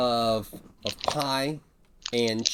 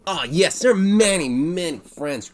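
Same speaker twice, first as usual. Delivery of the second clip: bartender voice; 5 semitones higher, 4 dB louder than usual. Acted.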